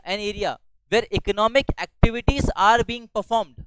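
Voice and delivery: very slow, each word spaced for note-taking; slow dictation. Shown as a demonstration. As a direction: dictate it slowly so they can write. Teacher repeats definition for notes. (बहुत धीरे लिखवाते हुए)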